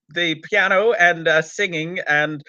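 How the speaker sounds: hammed-up bad American accent; Peter Purves. Host introducing a gunfighters episode in a put-on cowboy American accent. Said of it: "as Peter Purves doing an American accent".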